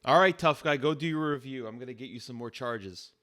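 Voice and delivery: loud dare dropping to an offhand threat; lightly voiced cop, fed up; mocking police officer. Officer threatens the defiant suspect.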